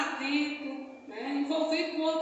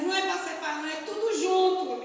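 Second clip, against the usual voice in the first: lightly imitated small child's insistence; a hint of a child pleading, pitched a little up; 4 semitones higher, 4 dB louder, faster than usual. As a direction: retell it as the child's plea. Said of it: "Ele dizia assim".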